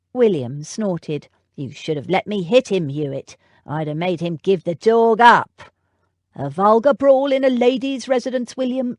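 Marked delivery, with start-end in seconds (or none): 1.5-5.6 louder, rough footman bluster; itching for a fight; a hint of a hotheaded young footman; William blusters. William boasts he'd fight. 6.3-9.0 louder, higher indignant rebuke; scandalised butler scolding the footman; butler's rebuke. Acted.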